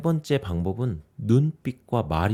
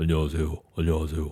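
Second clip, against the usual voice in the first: exaggerated, forced put-on deep bass voice; 6 semitones lower than usual. Speaker demonstrates a voice habit to avoid when greeting, in a put-on deep low voice. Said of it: "뭐 이렇게 저음을 내거나".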